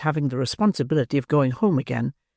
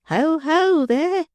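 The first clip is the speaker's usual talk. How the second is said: high, trembling call from afar; tremulous cry; 14 semitones higher, much slower than usual. Acted. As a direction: quaver out a nervous shout. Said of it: "cried a tremulous voice".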